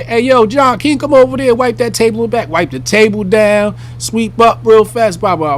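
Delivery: a pretend manager calling to staff and customer; hammed-up manager. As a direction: play the eager manager smoothing it over. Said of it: "Just customer service".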